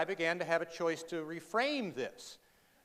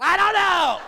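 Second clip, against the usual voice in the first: high, loud clueless mumble; sheepish reply; 10 semitones higher, 10 dB louder, slower than usual. Retold or imitated. Answering his wife, a high loud clueless reply. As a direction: play dumb, pitched way up. Retold answer to wife's question.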